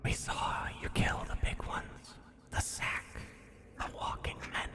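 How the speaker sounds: hushed, breathless creature whisper; whispering rat. Acted.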